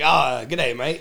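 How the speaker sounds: playful Aussie greeting; mock Australian accent. Host joking about meeting someone named Long, mock Australian accent. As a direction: put on a light Australian accent. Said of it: "I'm doing Australia".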